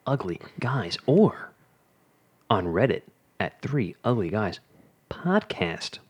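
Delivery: slow, drawn-out announcer read. Acted. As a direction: announce it like a fighting game announcer. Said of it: "That was a good announcer voice".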